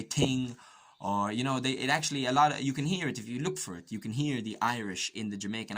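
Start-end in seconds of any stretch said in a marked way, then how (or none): 0.0-0.6 "ting" said with a plain T for TH; "ting" as Jamaicans say it, no TH sound. Shown as a demonstration. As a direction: say "ting", a hard t opening the word. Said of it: "Like they say ting".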